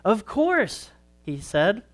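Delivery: put-on gentle storytelling for kids at church; story read to children. A narrator's reading. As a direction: tell it like a children's sermon story. Reads a children's story aloud.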